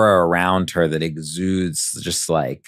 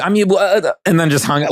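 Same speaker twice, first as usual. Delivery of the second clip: mock gushing; 11 semitones higher, 5 dB louder than usual. Still in the mocking voice.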